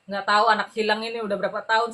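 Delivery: usual speaking voice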